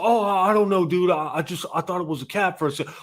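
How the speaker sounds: imitating the guy. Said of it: "He's like".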